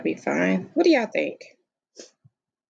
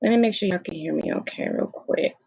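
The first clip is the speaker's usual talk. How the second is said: talking through laptop speaker; tinny built-in laptop mic. Real, not acted. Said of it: "I didn't actually plug in my microphone".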